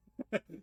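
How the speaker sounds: brief, high, loud chuckle; a quick burst of amusement; short laugh. Real, not acted. Amused while explaining a word.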